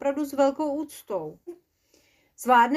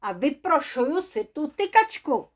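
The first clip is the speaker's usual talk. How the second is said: mildly indignant dwarf; 3 semitones higher, 3 dB louder than usual. Acted. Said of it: "rozčilil se trpaslík".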